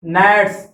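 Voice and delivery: नेट्स beginning straight on N, no G sound; silent G. Shown as a demonstration. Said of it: "जी silent है इसमें". (नेट्स में शुरू का जी silent)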